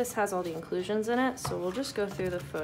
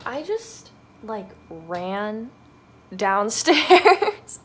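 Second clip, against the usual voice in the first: real panting between phrases; out of breath; 7 dB louder, much slower than usual. Real, not acted. Vlogger just ran downstairs for a package, out of breath. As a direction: catch your breath while talking. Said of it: "I'm out of breath".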